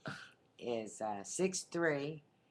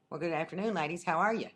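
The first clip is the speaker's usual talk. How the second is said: friendly Arkansas greeting, rising louder; lightly imitated Arkansas twang; Arkansas accent; 4 semitones higher, 4 dB louder, faster than usual. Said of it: "in his good Arkansas accent".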